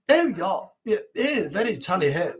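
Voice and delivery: mock upper-class Chelsea voice; Chelsea accent. Shown as a demonstration. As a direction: put on a plummy Chelsea accent. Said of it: "Chelsea one, if you go up that way, they're like".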